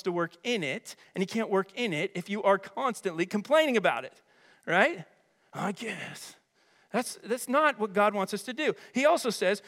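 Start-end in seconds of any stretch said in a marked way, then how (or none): 5.5-6.4 soft, reluctant reply under the breath; grudging murmur. Acted. Complainer told to stop murmuring, grudging murmur. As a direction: mimic someone giving in half-heartedly, voice dropped.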